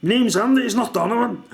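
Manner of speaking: mimicking Andy. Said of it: "he was going".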